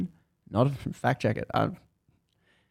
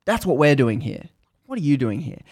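fuming; 2 semitones higher, 3 dB louder than usual. Retold or imitated. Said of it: "she's fuming".

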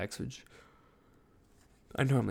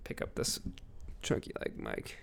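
leaning back, distant from the mic; talking from a few feet away; far from mic; 8 dB quieter than usual. Real, not acted. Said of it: "I'm gonna pull back from my computer".

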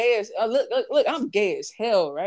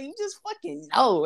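mock quote; 6 semitones higher than usual. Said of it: "she was like".

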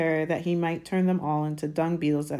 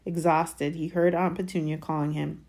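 ordinary delivery, nothing marked

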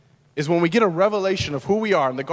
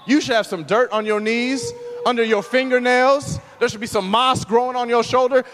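higher-pitched, emphatic preacher's charge; impassioned sermon build; preaching exhortation; 5 semitones higher, 3 dB louder than usual. Real, not acted. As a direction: urge the congregation on with rising fervor.

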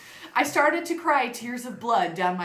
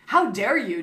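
demanding; 5 dB louder than usual. Acted. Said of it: "demanded Professor Snape".

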